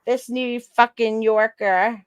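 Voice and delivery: slow mock New York accent; lightly drawn New York accent. Friend teases the New Yorker in a slow mock New York accent. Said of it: "my New York accent".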